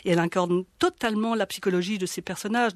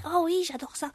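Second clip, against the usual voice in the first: put-on higher, eager little girl; 9 semitones higher, 3 dB quieter than usual. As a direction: answer like a delighted eight-year-old. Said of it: "elle est une petite fille de huit ans".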